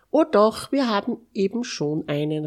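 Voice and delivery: high, loud start, then quick; excited exclamation. A narrator's reading. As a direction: exclaim it with a sudden bright idea. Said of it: "rief er aus". (plötzlich begeistert ausrufen)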